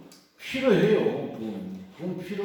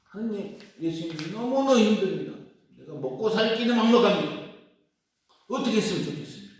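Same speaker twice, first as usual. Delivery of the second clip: a mock tearful plea, pitched higher; tearful prayer; 5 semitones higher than usual. A lone worshipper crying to God in church, mock tearful plea. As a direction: imitate a desperate, weeping prayer. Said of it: "울면서 기도해요".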